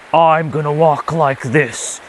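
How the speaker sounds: slow, swaggering tough-guy voice; macho man. Retold or imitated. Mocking macho men, slow swagger voice. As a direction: play the overly masculine dude, slow. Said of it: "men who are all masculine".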